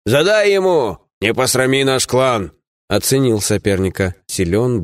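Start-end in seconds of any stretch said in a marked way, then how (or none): 0.0-2.5 high-pitched, drawn-out cheer without much volume; cheering shout. A narrator's reading. Dwarves cheer their fighter from behind, high mock shout. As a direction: call out high like a crowd urging on its champion. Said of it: "Гномы сзади кричали".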